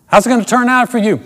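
high, loud doubting question; imagined questioner. Retold or imitated.

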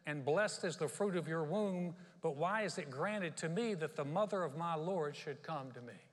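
loud, slow, emphatic scripture reading. Acted. Elizabeth greeting Mary on being filled with the Spirit, loud proclamation. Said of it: "she spoke out in a loud voice".

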